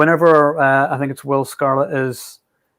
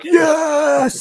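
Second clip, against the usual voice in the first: high cheer, far higher; cheering yes; 14 semitones higher than usual. Retold or imitated. Moviegoer recalling cinema cheer at Sean Connery, excited. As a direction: cheer like the crowd when Connery appears. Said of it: "we were like".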